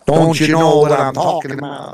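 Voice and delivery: put-on comic Swedish-tinged New York accent; put-on Swedish New Yorker accent; mixed Swedish New Yorker. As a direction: blend a Minnesota Swedish lilt with New York talk. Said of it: "a little bit of a Swedish New Yorker".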